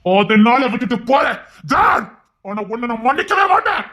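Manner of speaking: slow, rising anger; angry. Acted. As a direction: refuse forgiveness in heated, drawn-out words. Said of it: "ஏன் மாமா கோபப்படுறீங்க?".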